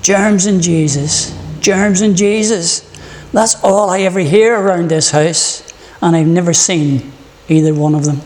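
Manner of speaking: a hint of a whining little boy; lightly voiced grumble; complaining boy. Pastor's small son complaining about handwashing, mild whine. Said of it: "he refused and complained".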